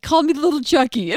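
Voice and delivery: put-on high whiny kid's complaint; mock crying child. Mom repeats her son's grievance, mock tearful. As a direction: imitate a tearful little tattler. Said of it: "he's like".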